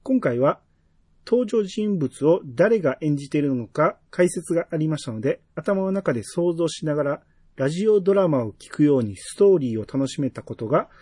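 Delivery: measured, evenly phrased read-aloud; reading a listener's message. Real, not acted. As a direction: read the letter out clearly, phrase by phrase. (お便りを丁寧に読み上げる口調)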